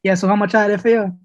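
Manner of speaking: lightly put-on American accent for a cashier; careful American-accented customer. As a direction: switch into a mild American accent. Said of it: "I changed my accent".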